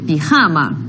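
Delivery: "pijama" with stressed ja, dropping in pitch; stress on penultimate syllable. Shown as a demonstration. Teacher repeating the word for students, low-pitched, stressing ja in "pijama". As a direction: let "pijama" fall after a stressed middle ja. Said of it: "é a penúltima".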